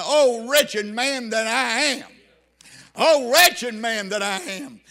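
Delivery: slow, loud lament of a wretched man; slow mournful wail; anguished cry. Retold or imitated. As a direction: cry it out slowly, pleading. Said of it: "you have made this cry".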